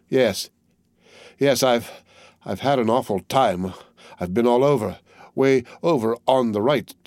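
a hint of a shaken boy covering his shame; lightly voiced weary young soldier. Henry telling comrades his made-up tale, faltering and uneasy.

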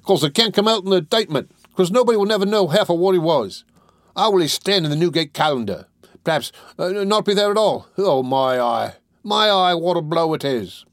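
high, loud Cockney lad in aggrieved protest; defiant. A narrator's reading. Charlie protesting his friend's lost fame, defiant. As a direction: pour out the grievance, wailing at the end. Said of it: "chafed into perfect defiance".

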